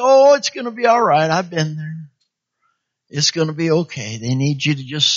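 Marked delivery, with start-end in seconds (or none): 0.0-2.1 put-on comforting a friend with a crying baby, brightly; bright reassurance. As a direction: cheer up a worn-out parent. Reassuring a tired new parent.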